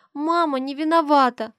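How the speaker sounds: put-on high, childlike, guilty plea; a small girl owning up; little girl's voice. Little daughter confesses to her mother in a high child's voice.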